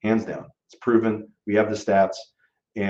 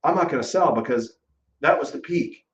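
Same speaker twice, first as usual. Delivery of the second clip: mock seller; 5 semitones higher than usual. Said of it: "our home prices like".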